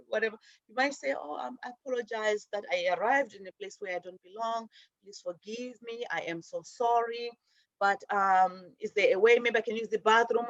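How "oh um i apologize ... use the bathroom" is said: gentle apology. Pretend. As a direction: apologize meekly to win them over. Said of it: "And be nice".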